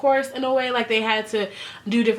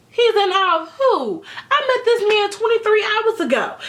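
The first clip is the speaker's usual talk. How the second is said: high, loud words broken by laughter; can't believe it, laughing it off; incredulous laughing protest; laughing in disbelief; 10 semitones higher, 3 dB louder than usual. Real, not acted. Incredulous at mom's comment.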